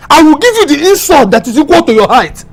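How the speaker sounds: heated, offended outburst; indignant quarrel. Acted. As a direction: hurl the insult back, pitch climbing. Acted quarrel trading insults.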